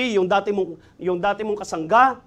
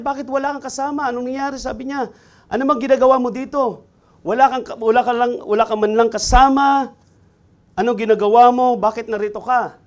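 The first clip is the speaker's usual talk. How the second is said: higher, building from a query to a loud demand; the priest's alarm grows louder with each question; startled priest; 3 semitones higher, 5 dB louder than usual. Acted.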